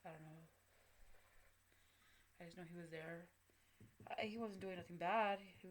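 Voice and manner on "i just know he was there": hushed whisper about the dream; quiet confiding whisper. Real, not acted. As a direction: breathe the words out, voiceless.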